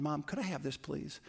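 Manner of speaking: put-on sweet little boy. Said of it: "he was so nice, just a little gentleman".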